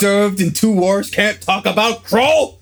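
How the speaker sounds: put-on old man voice. Playing an old veteran.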